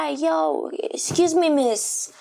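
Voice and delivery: high, eager mock American pickup line; flirty American guy. Imitating an American man approaching her at the kebab place. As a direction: call out like a guy hitting on her. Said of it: "Han bara".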